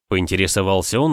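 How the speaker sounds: ordinary talk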